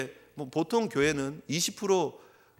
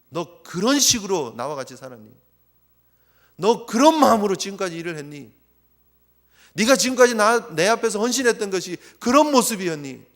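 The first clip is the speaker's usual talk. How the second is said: louder reproachful questions; rebuking father; 5 dB louder than usual. Retold or imitated. Father rebuking the elder son, louder. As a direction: press each question like a scolding. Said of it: "책망 들을 만한 모습이라는 거예요".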